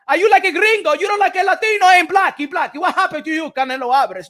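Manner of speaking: loud, high, mock scolding of Canelo; mock outraged yell. Ranting vlogger yells at Canelo for picking non-Latino foes. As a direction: yell at Canelo like he betrayed his people.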